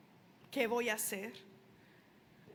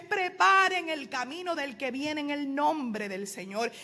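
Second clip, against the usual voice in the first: mild preacher's cry, stretched and slow; 3 dB louder than usual. Acted. Preacher voicing Juan announcing who is coming, mildly crying out. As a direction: proclaim it slowly, a little raised. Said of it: "Juan gritaba a voces".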